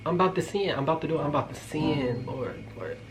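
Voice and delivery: hammed-up plea, trailing off softly; mock prayer. Storyteller calling on the Lord over a man in a towel, mock desperate. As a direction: beg heaven as temptation takes over, playfully. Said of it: "That's how I was".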